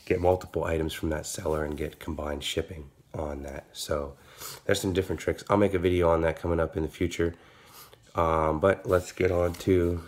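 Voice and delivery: slightly stuffy nose; after nasal spray. Real, not acted. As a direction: talk as if just sprayed your nose. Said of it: "and I just did my nose spray".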